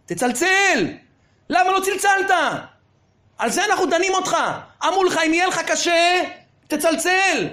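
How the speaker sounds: the judge reproaching him; scolding judge. Retold or imitated. (שופט נוזף בקול)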